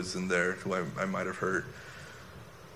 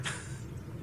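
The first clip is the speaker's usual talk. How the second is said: quiet little laugh, much softer; 10 dB quieter than usual. Real, not acted. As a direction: let out a soft, brief chuckle. Laughs after recalling the speed.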